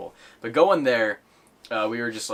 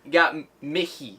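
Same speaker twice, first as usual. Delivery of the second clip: put-on higher, stumbling kid voice; kid prank caller; 5 semitones higher, 4 dB louder than usual. Kid prank caller repeats to store clerk, high stammer. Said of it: "he can't say K's".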